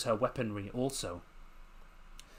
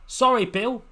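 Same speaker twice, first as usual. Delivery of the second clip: loud, high call down to the street; 10 semitones higher, 9 dB louder than usual. Acted. Lucy calling down an apology to Bill. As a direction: call it down from the roof. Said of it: "Lucy called down".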